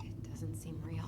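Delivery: whispering. Acted. Awed quiet line in old house.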